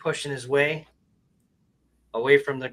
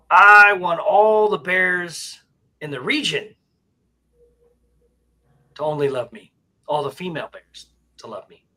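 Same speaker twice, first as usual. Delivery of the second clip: bear voice; 5 semitones higher, 8 dB louder than usual. Acted. Bear demanding the genie make every female bear love him. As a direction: drag out the bear's big wish, loud. Bear's slow loud wish.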